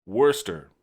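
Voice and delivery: Worcester said as WUSS-ter, two syllables; Worcester, short and clipped to wuss-ter; Worcester, said wuss-ter, not wor-ces-ter. Shown as a demonstration. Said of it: "Let me tell you how it's pronounced".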